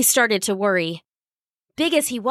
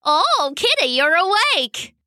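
put-on high, bright girl's exclamation; high delighted girl's voice; 7 semitones higher than usual. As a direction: greet the waking cat with joy. Girl delighted cat wakes.

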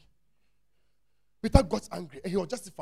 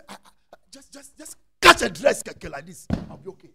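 woman's plea; 10 dB louder than usual. Retold or imitated. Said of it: "and say".

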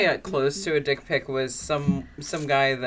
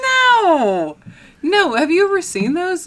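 loud protest; 14 semitones higher, 9 dB louder, slower than usual. Real, not acted. Denying loudly after a tease.

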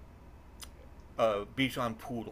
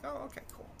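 mock relieved; 14 semitones higher, 12 dB quieter, faster than usual. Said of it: "I'm like".

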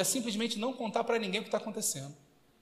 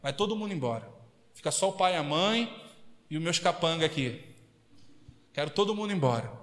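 lower, softer firm command; Jesus's command; 5 semitones lower, 3 dB quieter than usual. Retold or imitated. Jesus sending mourners away, lower firm voice. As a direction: calmly order the crowd out. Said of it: "Ele falou".

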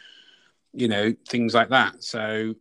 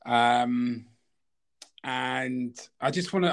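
ordinary talk, nothing marked

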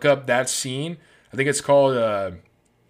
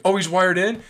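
mock angry retort; 7 semitones higher, 4 dB louder than usual. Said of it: "Eduardo's pissed off".

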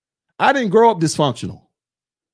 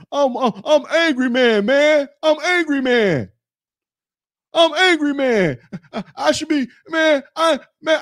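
high-pitched mock tantrum, whining all through; Angry Man; 5 semitones higher than usual. YouTuber mocking a rival who got no award, exaggerated whining. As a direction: imitate a sulky crybaby, pitched up and complaining. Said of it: "whining and crying all damn day long".

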